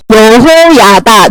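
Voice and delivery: low, slow 여호야다; slow name teaching. Shown as a demonstration. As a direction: stretch 여호야다 out syllable by syllable. Name stretched for class to learn.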